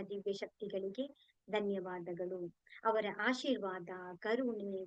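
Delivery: measured litany with a repeated cadence; steady devotional recitation; prayer of thanks. Real, not acted. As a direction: recite each thanks evenly, like an opening prayer.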